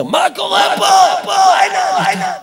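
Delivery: high, loud mock outburst; acted angry shout. Husband pre-empting wife's Passover cleaning outburst, mock angry shouting. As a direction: shout it like a fed-up spouse before the holiday. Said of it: "מישהו צריך לצעוק".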